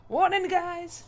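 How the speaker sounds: yelled high Appalachian hillbilly warning; loud hillbilly voice. Acted. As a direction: holler it like a hillbilly. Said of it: "in the loudest hillbilly voice he can".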